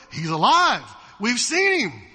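loud, excited announcement; thrilled friends bursting with news; stoked disciples. Retold or imitated. Disciples telling Thomas the news, loud and thrilled. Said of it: "they're stoked".

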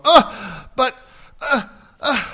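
stunned halting uh, but; mock heartbroken stammer; crestfallen Boaz. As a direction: Boaz caught flat-footed, sputtering. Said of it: "Boaz's heart must have crashed".

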